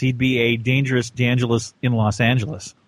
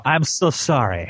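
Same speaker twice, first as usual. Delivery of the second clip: Pink Panther voice; slower than usual. Acted. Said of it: "you sound like the Pink Panther".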